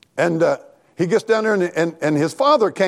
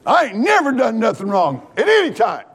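self-righteous protest; 5 semitones higher than usual. Acted. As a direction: protest your innocence like the self-righteous son. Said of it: "he's self-righteous, right?".

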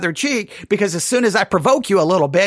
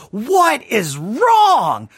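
imagined puzzled believer; 6 semitones higher than usual. Retold or imitated. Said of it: "you're gonna be like".

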